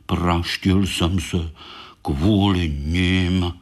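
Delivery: slow, low grumble; grumbling. Acted. Baňka grumbling about his hurt paw, slow and low. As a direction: mutter it slowly like a sulky hurt beetle. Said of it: "brblal Baňka".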